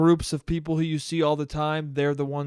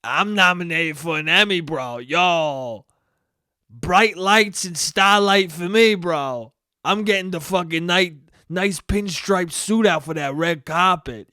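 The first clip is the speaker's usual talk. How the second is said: a loose mock Cuomo boast; lightly voiced Cuomo bragging; Cuomo impression. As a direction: swagger it like a bro headed to the red carpet. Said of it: "And he's like".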